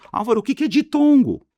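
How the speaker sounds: high, loud mock-student voice; questioning pupil. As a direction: squeal it like a puzzled pupil interrupting.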